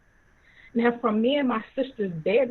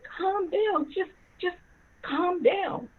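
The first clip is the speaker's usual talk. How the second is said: urgent soothing; 8 semitones higher, slower than usual. Retold or imitated. Mother soothing her yelling husband.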